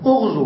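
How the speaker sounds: اغزو said "ughzu", starting on u; damma on hamza. Shown as a demonstration. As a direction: open اغزو with a short u. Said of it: "بالضم".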